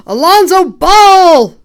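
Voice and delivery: excited scream. Real, not acted. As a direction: gasp then a very loud high shriek of the name. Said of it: "didn't mean to scream in your ear".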